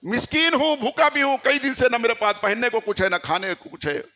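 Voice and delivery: lightly voiced beggar's plea, starting high and easing down. Beggar calls to the household for food, mild pleading call. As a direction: call out as a beggar, pitch falling as it goes. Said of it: "फिर आवाज आई किसी की".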